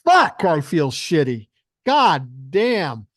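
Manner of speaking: loud groaning hangover complaint; loud mock hungover grumble; hungover brother. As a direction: moan it out loud like a hungover guy. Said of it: "and he goes".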